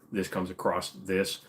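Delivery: "across" pronounced "acrosst" mid-phrase. Shown as a demonstration. Streamer quoting his old habit, "across" with added T. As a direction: slip a T onto "across". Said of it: "with a T".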